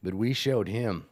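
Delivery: lightly voiced smug goblin leader; goblin boss gloating. Goblin boss boasts about beating the dwarf, gloating.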